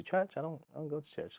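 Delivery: high, quick offhand reply, dropping away; casual fan voice. Retold or imitated. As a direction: shrug it off like a fan who never goes. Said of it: "I started noticing".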